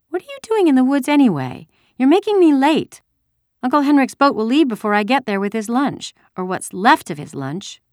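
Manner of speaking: put-on high, loud, complaining child; indignant young girl. A narrator's reading. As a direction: scold the soldier as a cross little girl. Indignant girl challenging the soldier.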